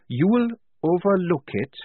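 high, incredulous angry echo; snapping. A narrator's reading. Tonka throwing Blouse's words back, outraged. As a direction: repeat it as an outraged challenge. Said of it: "Polly could see Tonka snap".

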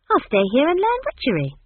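put-on high, loud, eager girl; relieved. A narrator's reading. Esk decides to learn witchery, relieved. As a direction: announce it with happy relief. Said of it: "said Esk, relieved".

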